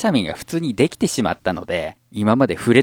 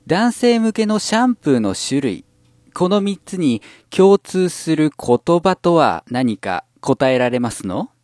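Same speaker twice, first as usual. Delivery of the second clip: prim ojou-sama quizmaster voice, raised; Kurosawa Dia; 3 semitones higher than usual. Acted. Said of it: "ラブライブサンシャインの黒沢ダイヤさん".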